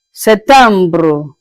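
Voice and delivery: Septembre with French vowels and a rolled ending; French pronunciation. Shown as a demonstration. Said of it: "Je répète".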